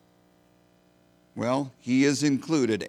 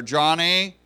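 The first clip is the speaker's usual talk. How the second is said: raised roll-call call of a name; teacher calling roll; 3 semitones higher, 4 dB louder than usual. Retold or imitated. Teacher calls the roll to the class, raised roll-call voice.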